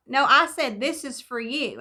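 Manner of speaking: firm retold insistence, falling at the end; very serious. Neighbor insists the money is hers, imitated seriously. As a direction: insist seriously, stressing the first words. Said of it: "he was very serious".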